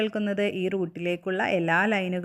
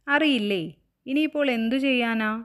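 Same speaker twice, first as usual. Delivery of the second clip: higher, puzzled questioning; surprised concern; 5 semitones higher than usual. Acted. Moon uncle at a loss over the kite, puzzled. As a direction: ask in dismay with a lifted voice.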